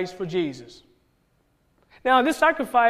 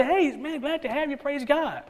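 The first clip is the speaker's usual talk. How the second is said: higher, softer mock greeting; polite welcome; 5 semitones higher, 5 dB quieter, slower than usual. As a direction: play a sweet, harmless welcome. Acted polite welcome hiding true thoughts.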